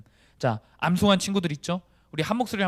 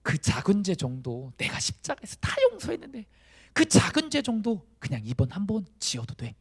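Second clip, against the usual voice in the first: mock indulgent Jesus; 5 semitones higher than usual. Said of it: "예수님 단 한 번도 이렇게 말씀하신 적".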